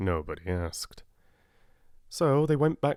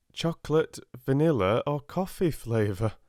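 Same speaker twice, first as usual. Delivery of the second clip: mildly; 6 semitones higher, 3 dB louder than usual. A narrator's reading. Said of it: "he repeated mildly".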